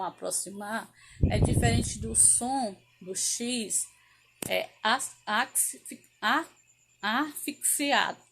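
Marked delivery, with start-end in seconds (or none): 4.5-8.2 stumbling restarts before asfixiado; halting ks sound. Shown as a demonstration. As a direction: break off twice, then land on asfixiado. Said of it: "Quase não sai, né?". (hesitante, tropeçando em asfixiado)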